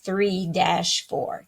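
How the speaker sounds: slow, even count with the dash held; teacher slowly counting one dash two, three dash four; counting the beats. Shown as a demonstration. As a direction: count it out slowly, in strict time. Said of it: "you would count it".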